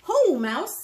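lightly voiced hare calling a greeting. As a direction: call out like a friendly hare.

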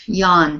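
"yawn" with an open ah vowel, no W sound; yawn pronunciation. Shown as a demonstration. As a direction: say "yawn" like "yon". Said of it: "If you pronounce it like that".

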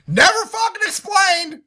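high, loud indignant shout; real exasperated yell; angry outburst. Real, not acted. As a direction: bark it like a verdict. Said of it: "but I'm so fucking angry".

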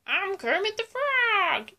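a lightly voiced, excited frog puppet; Kermit the Frog. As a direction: bounce it out like a cheerful puppet frog. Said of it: "I'm going to do Kermit the Frog".

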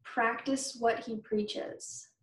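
slowed right down, each word spelled out; slow and clear. Shown as a demonstration. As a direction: say it slowly so kids catch it. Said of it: "Do you guys know what that means?".

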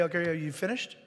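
gentle patient God. Acted. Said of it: "he'll say".

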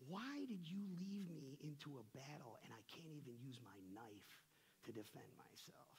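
soft, low plea to God; retold complaint. Preacher retells complaining to the Lord, subdued. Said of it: "I complained to the Lord".

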